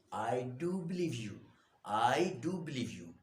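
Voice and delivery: emphatic DO in the reply; stress on do. Shown as a demonstration. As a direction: lean on "do" to contradict firmly. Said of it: "emphatic manner of speaking".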